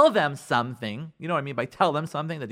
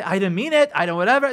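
defensive spouse; 2 semitones higher, 5 dB louder than usual. Acted. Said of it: "defend himself or herself".

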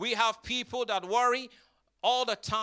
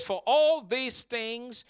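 slow quote; 5 dB quieter, slower than usual. Shown as a demonstration. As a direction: stretch it out slowly, seek fading away. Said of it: "He says".

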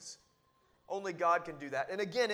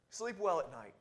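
soft reassurance; 4 semitones lower, 4 dB quieter than usual. Shown as a demonstration. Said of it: "Do you see the difference?".

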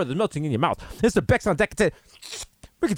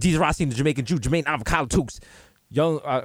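Carol Baskin voice; 4 semitones lower than usual. Acted. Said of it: "I said that in the Carol Baskin voice".

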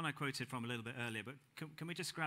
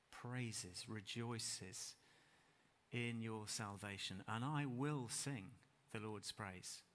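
tender close; 3 semitones lower, 3 dB quieter, slower than usual. Acted. Closing psalm, softening.

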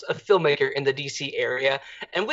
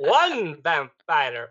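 slow counting vampire voice; much slower than usual. Pretend. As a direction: count slowly like the Count.

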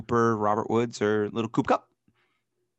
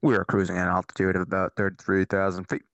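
lightly done captain's PA voice; airline pilot announcement; 4 semitones lower than usual. Pretend. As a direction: lower announce like a cruising captain. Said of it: "I sounded like an airline pilot".

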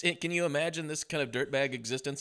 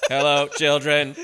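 talking teddy bear voice; 9 dB louder, slower than usual. Pretend. Mock talking toy bear.

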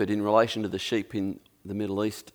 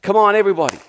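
calling out; 5 semitones higher, 5 dB louder than usual. Acted. Calling the sheep together.

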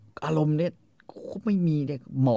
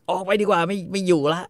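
fed-up husband; 8 semitones higher, 4 dB louder than usual. Retold or imitated. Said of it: "แม่งบอก".

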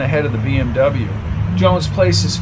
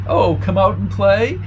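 high, giggly sing-song; squeaky giggly voice; 5 semitones higher than usual. A narrator's reading. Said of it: "giggling again".

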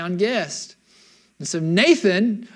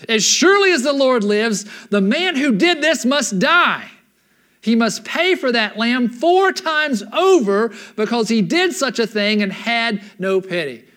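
angry verdict; 3 semitones higher, 4 dB louder than usual. Acted. David furious at the rich man.

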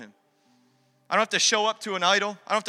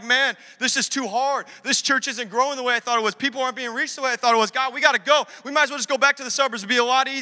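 high, pressured griping; worked-up, exasperated venting; retold discouraged complaint; 5 semitones higher, 4 dB louder than usual. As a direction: complain as if ready to quit. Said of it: "sometimes I'm like".

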